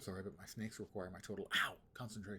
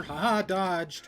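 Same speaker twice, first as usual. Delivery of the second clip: much higher, much louder gleeful whoop; triumphant; 10 semitones higher, 15 dB louder, much slower than usual. Real, not acted. Gamer whooping after dodging a scooter. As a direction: crow in triumph.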